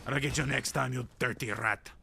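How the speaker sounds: put-on villain voice at normal volume; playful menace, spoken out; mock villain threat. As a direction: repeat the threat in a lightly hammed-up voice.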